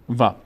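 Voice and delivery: وا said as its own separate syllable; waw read alone. Shown as a demonstration. Teacher shows learners waw on its own, read separately. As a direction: sound out وا by itself, waw plus long vowel. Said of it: "یک بار هم به تنهایی".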